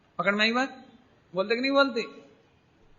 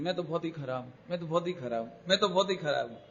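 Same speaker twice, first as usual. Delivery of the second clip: imitating a self-critical disciple, lower and much softer; mock self-pity; 6 semitones lower, 9 dB quieter, faster than usual. Preacher imitates disciples confessing their faults, soft and low. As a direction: sigh it out like a man confessing he is hopeless. Group members running themselves down.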